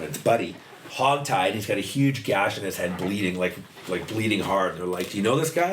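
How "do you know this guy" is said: imitating a cop's pointed question, higher; mock police question pitched high; cop asking. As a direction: quiz him like a suspicious cop.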